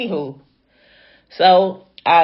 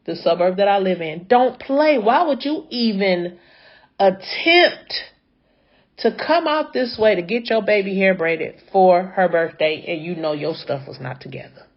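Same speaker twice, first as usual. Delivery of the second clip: exasperated scolding; 3 semitones higher than usual. Retold or imitated. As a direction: give her a piece of your mind. Chewing the driver out.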